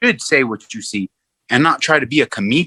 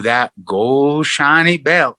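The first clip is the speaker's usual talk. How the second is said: mock dreamy; much slower than usual. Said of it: "And, oh".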